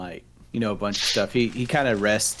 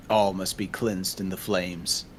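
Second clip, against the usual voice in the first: solemn quote; 2 semitones lower, slower than usual. Retold or imitated. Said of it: "As my brother once said".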